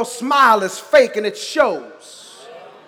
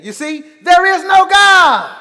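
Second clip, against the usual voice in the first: a hint of a loud, scoffing atheist; lightly voiced scoffing atheist; mocking atheist; 6 semitones higher, 8 dB louder than usual. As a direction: throw it out like a smug doubter. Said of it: "To which he said again".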